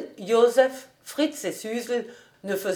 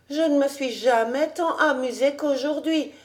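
put-on high-pitched, delighted girl's voice; young girl; 6 semitones higher than usual. A narrator's reading. Girl thanking him for the day, high and delighted. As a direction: gush lightly as a happy young girl. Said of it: "faisait la petite".

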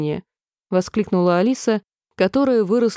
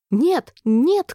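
higher, urgent no-no; queen's cry; 7 semitones higher than usual. A narrator's reading. Queen stops the jury leaving, crying out sharply. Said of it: "крикнула королева".

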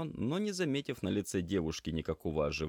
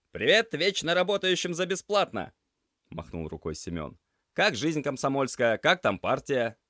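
teasing greeting; 9 semitones higher, 8 dB louder than usual. Acted. Semyon teasingly greets the class head.

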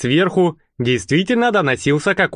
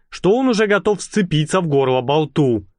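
usual speaking voice

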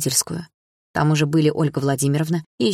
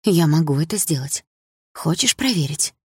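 venomous tenderness. A narrator's reading. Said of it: "с той же ядовитой нежностью спросила я".

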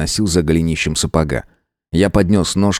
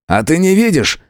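furious retort; 9 semitones higher than usual. A narrator's reading. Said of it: "с яростью бросил я".

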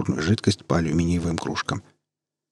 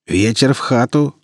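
slow, velvety insinuating greeting; velvety, ingratiating; 5 semitones higher, 4 dB louder, slower than usual. Acted. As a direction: greet them slow and silky. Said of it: "бархатным голосом вкрадчиво".

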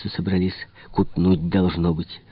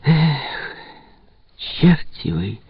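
expressive; 7 semitones higher, much slower than usual. A narrator's reading. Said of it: "выразительно проговорила она".

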